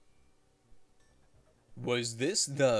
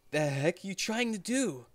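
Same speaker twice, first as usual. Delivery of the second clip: put-on older main character voice; 6 semitones higher than usual. Shown as a demonstration. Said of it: "He's, he's, he's older than that".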